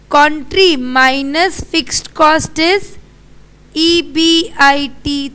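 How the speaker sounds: slow, spaced-out formula; slow dictation. Real, not acted. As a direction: dictate it slowly, term by term. Teacher restates formula for class.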